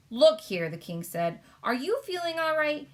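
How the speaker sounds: loud then high king voice; sharp then concerned; exasperated King. Acted. King doubting the Queen's sanity, loud then worried.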